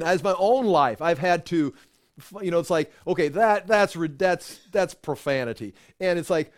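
usual speaking voice

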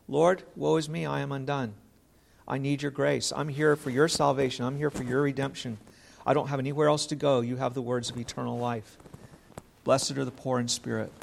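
a broken sinner pleading quietly for grace; humble plea. Acted. Preacher voicing a humble sinner praying to God, soft and lowly.

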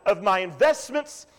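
a touch of the proud farmer gloating over his barns; rich farmer boasting. Retold or imitated. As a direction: puff up like a self-satisfied rich man. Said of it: "He said".

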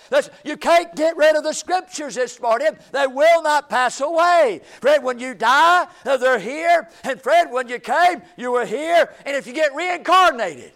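loud, insistent pulpit delivery; forceful preaching. Real, not acted. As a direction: drive the point home to the congregation.

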